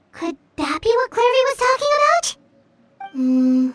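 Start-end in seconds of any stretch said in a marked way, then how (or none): 3.1-3.7 a doubtful whisper under the breath; whispering doubt to a companion mid-conversation; whispered aside. Acted. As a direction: whisper it to yourself. Aside while puzzling over clue.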